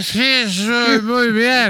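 put-on very slow slurred drunk voice. Drunk driver answering the band, slow slurred drunk voice. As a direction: drag the words like a drunk.

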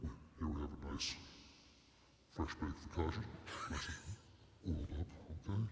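monster voice. Acted. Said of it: "Would you use the monster voice?".

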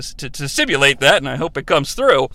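talking while holding the nose; words through a pinched nose; pinching nose. Real, not acted. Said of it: "'cause I'm holding my nose".

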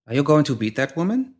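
small, precise woman's voice. A narrator's reading. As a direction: ask it crisply and evenly. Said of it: "a small, precise voice".

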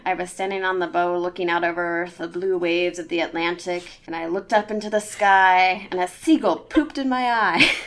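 put-on pirate accent building to the punchline. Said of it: "your pirate accent is spot on".

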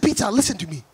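imitated stern mom with an African accent; mock-fierce mom building to a loud decree; African mother. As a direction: lay down the law like an African mother. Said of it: "She said".

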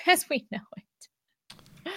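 words broken by a laugh. Real, not acted. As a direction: laugh through the end. Laughing through quoted thought.

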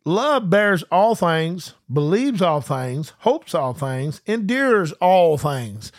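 drawn out, slow and deliberate; slow scripture reading. Shown as a demonstration. Preacher slowly reading scripture to his online congregation. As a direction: read each phrase slowly, savoring it. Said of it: "Now watch this".

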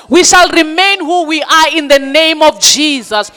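rally the crowd, build it up; roaring rallying speech. Acted. Rallying declarations to congregation.

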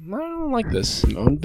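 high, drawn-out cartoon dog voice; put-on doggy voice; talking dog. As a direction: voice a suspicious dog, slow and high. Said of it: "and the dog's like".

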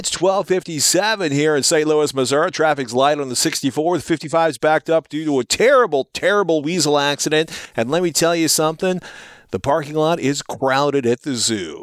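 smooth radio DJ traffic report. Acted. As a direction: read it like an AM radio host. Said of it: "I've got radio voice on today".

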